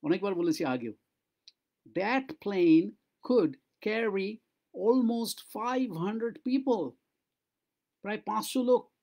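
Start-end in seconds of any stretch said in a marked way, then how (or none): 1.9-6.9 very slow, lips kept almost shut; mouth nearly closed. Shown as a demonstration. Teacher demonstrates closed-mouth English, slow. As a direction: talk as if sewn shut. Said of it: "মুখ বন্ধ থাকবে".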